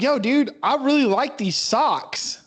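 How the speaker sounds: high, slow goofy bro voice; dopey bro voice. Retold or imitated. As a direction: plead sheepishly for the socks. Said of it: "And you're like".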